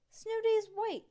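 high, loud grumpy retort. Acted. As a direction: grump at her little brother. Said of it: "Judy grumped".

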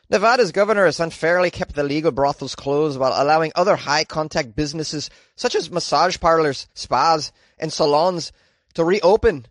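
light attempt at Irish accent; mild Irish lilt on the quote. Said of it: "I'm gonna try and do an Irish accent".

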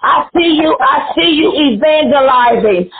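urgent, rolling preacher cadence; prophesy over them with punched phrases; fervent prophecy. Real, not acted.

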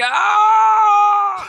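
high, loud hammed-up scream; mock labor scream. Draka screams by the lake in mock labor. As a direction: belt out a fake birth scream. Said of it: "she's like".

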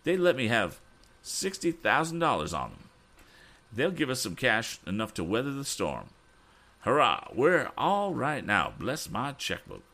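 high, excited character voice; much excited. Acted. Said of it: "He was much excited".

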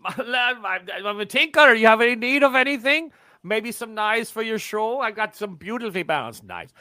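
high, bright hawker pitch; eager peddler. Acted. Peddler hawking knives to the party, high and eager. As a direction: pitch the wares like a travelling tinker.

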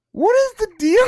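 high, loud "what is the deal"; exasperated outburst. Retold or imitated. Exasperated at a cringy character, loud and high. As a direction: throw up your hands at it, loud and high.

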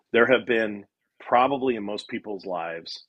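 ordinary talk

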